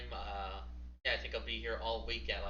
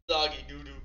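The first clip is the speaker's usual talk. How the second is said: loud; 4 semitones higher, 8 dB louder than usual. Real, not acted. Mock outrage at game.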